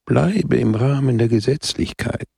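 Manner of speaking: calm, mild admonishing tone; gentle rebuke. Acted. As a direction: Christ calmly correcting the priest. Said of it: "„Don Camillo".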